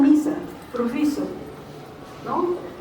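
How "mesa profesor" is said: "Misa, profiso" with i instead of e and o; children's vowel swap "misa", "profiso"; imitating Andean children. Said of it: "los niños decían".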